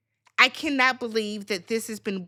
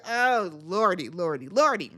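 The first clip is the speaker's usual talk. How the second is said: mock churchy lament; 6 semitones lower than usual. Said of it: "I said".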